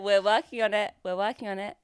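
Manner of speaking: hesitant attempt at a character's accent; Roman's accent. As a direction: try the character's accent, not quite nailing it. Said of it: "Great, great accent".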